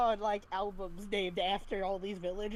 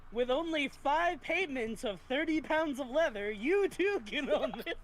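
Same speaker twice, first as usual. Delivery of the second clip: hard sell ad; 4 semitones higher than usual. Pretend. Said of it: "sound like a telecommercial".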